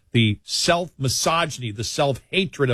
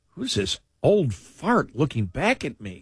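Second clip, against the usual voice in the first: mock grumble at mirror. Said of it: "I go".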